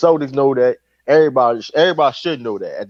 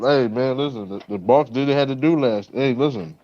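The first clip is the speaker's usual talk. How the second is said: talking while chewing food; words around a mouthful of food; mouth full; 3 dB quieter than usual. Real, not acted. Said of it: "Stop talking with your mouth full".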